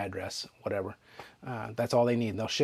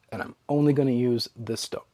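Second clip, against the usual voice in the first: talking through hiccups. Real, not acted. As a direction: speak with the hiccups. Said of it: "got the hiccups".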